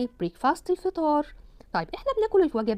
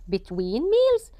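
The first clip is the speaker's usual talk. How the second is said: slow drill; 5 semitones higher, much slower than usual. Shown as a demonstration. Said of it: "slow drill".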